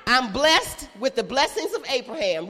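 loud call to repeat; declared. Shown as a demonstration. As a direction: proclaim it loud so they echo it. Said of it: "Repeat after me".

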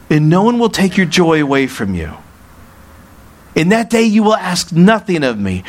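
preacher reading the Gospel aloud, lifted and deliberate; scripture reading. Acted. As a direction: proclaim the verses to the congregation.

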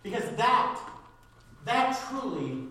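punchy preaching, key words hit loud; emphatic preaching. Real, not acted. Preacher telling church he wants God's future, emphatic. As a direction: preach it with forceful bursts.

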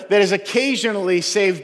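"occasionally" given a little extra weight; stress on occasionally. Real, not acted. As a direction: lean lightly on "occasionally". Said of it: "I emphasize that word occasionally".

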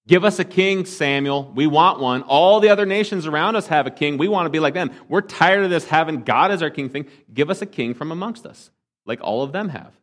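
the Israelites clamouring at Samuel; demanding crowd. Retold or imitated. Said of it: "They said".

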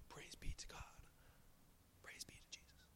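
hushed unvoiced whisper of praise. Preacher mocking a stiff crowd in a whisper. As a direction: whisper it like a timid, reverent worshipper.

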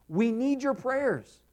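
urgent cry for help. Retold or imitated. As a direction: stretch it out like a man under duress. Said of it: "he's crying out".

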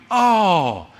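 mock thankful gush; sarcastic reply. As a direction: pretend to be grateful, dripping sarcasm.

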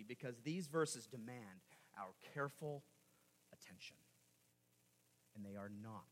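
a light imitation of a preacher's accent, whispered at the close; Alistair Begg's accent. Pastor coaching his congregation in a lightly imitated accent. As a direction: mimic the pastor's accent, sinking to a hush. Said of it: "Alistair says in his accent".

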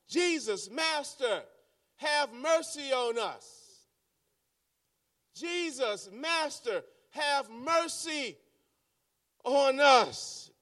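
mock yelled plea. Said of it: "They yelled".

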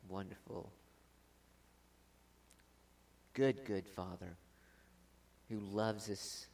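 soft, choked-up prayer; real tender emotion in a hushed prayer; emotional prayer. Real, not acted. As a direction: pray quietly, moved and holding back tears. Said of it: "I get a little emotional around Christmas time".

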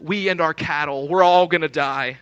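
mildly hammed-up doom, pushing the last words; mock the crowd's overblown complaint; mock exaggeration. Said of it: "how even much they're exaggerating it".

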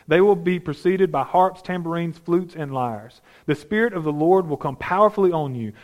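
measured, deliberate scripture reading. Acted. Preacher reading Samuel's words to Saul, measured scripture reading. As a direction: read the passage with weight. Reads scripture passage aloud.

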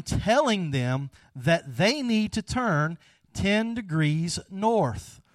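slow, insistent, mildly irritated order; stern captain losing patience, drawn out. Retold or imitated. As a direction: spell out the order with contained irritation. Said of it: "this kinda irritated the captain".

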